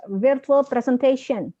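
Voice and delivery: slow "presentation" with a clear "shen" at the end; marked shen ending. Shown as a demonstration. Teacher drilling a student on shen, slow model. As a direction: draw out "presentation", finishing on a hushing "shen". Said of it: "Shen-nya di ujung boleh di-syehkan lagi".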